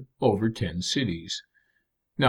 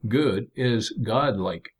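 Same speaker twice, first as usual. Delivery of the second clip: 'good' slow and weighty; slow emphatic good; slower than usual. Shown as a demonstration. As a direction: lean on 'good', slowly. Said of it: "the word for good".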